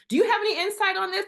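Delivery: high, loud and fast pleading ask; half-joking plea to God; pleading question. Retold or imitated. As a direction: beg the Lord for a hint.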